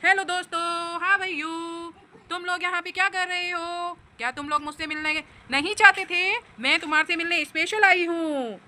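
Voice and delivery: lightly voiced toy bike looking for friends; toy vehicle voice. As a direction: play the lonely toy, a bit pleading. Mother voicing a toy vehicle. (खिलौने की हल्की सी आवाज़)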